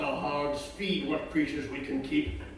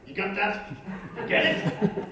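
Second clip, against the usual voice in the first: loud insistent peasant; 5 semitones higher, 8 dB louder than usual. Acted. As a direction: hammer the point home. Peasant presses the point.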